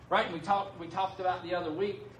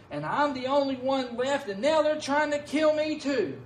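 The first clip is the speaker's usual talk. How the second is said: Elijah complaining; 4 semitones higher than usual. Retold or imitated. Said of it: "And Elijah replies".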